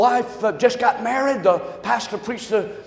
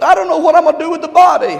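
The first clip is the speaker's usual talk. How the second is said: rushed punchline; 5 semitones higher, 6 dB louder, faster than usual. Retold or imitated. Wife's punchline.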